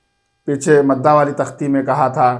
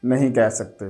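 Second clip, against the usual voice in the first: a patient teacher sounding out syllables; slow spelling drill; slower than usual. Shown as a demonstration. Teacher sounding out syllables for a child, slow spelling drill. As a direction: spell each letter out slowly and evenly, then blend.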